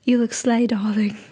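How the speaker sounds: lightly put-on British accent. Imagined admirer whispering a compliment in her ear, British accent. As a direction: say it with a touch of British. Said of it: "doesn't have to be in a British accent".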